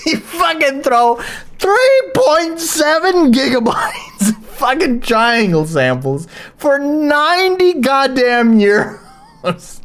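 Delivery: high, laughing rant; words squeezed out high through laughter. Real, not acted. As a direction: crack up while ranting in disbelief. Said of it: "from laughing".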